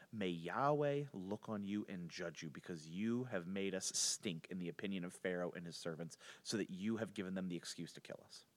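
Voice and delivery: low, soft, solemn reproach; grave rebuke. Retold or imitated. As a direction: lay blame quietly and gravely. Foremen's curse on Moses acted out.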